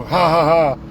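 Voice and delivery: fake, spelled-out "ha, ha, ha"; mock gloating laugh. Canada boasting it tricked families over tuition, mock gloating laugh. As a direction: put on a mocking laugh as if gloating.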